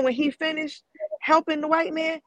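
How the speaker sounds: usual speaking voice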